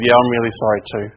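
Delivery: understated, genuine reply apology; sincere apology. Retold or imitated. Younger brother making up with his sibling, mildly heartfelt. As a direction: accept it and mean yours too. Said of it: "until we actually meant that we were sorry".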